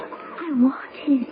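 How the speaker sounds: slow, quiet, near tears; tearful admission. Acted. The torn daughter tells her lover, near tears. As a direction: confess it with a catch in the throat.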